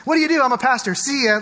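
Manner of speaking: light, quick small-talk voices; a pastor acting out strangers at a party, lightly voiced; mock party chat. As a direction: play out the awkward party exchange. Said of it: "a buzzkill on a relationship".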